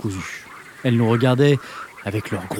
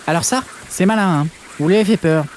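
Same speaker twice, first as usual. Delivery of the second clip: sermonner; 4 semitones higher than usual. Acted. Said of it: "sermonner l'assistance avec vigueur".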